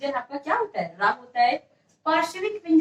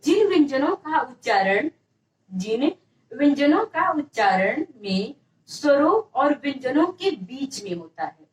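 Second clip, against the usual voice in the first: dictation. Shown as a demonstration. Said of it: "आप ऐसे heading बना के कर लीजिए".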